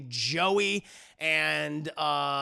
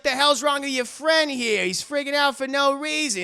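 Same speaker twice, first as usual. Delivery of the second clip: loud, raised, exasperated complaint; acted irritated questioning; indignant mobster; 7 semitones higher, 7 dB louder than usual. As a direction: gripe like an annoyed mobster.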